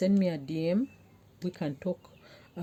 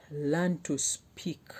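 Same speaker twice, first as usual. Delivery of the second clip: slow emphasis; much slower than usual. Real, not acted. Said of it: "slow emphatic advice".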